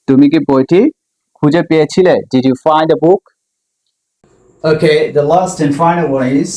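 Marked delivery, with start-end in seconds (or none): 2.1-3.2 slow question rising at the end; slow teacher demo with a rise; slow model question. Shown as a demonstration. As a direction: model the question slowly for learners. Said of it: "teacher models question slowly".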